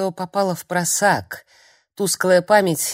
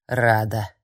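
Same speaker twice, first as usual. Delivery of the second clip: bitter; 5 semitones lower than usual. A narrator's reading. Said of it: "горько проговорила бабка".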